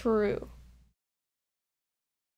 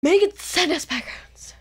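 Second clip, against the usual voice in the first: louder, higher, slower outro shout; loud announcer call; 8 semitones higher, 5 dB louder, slower than usual. Acted. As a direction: belt out the outro line slowly. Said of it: "You just go".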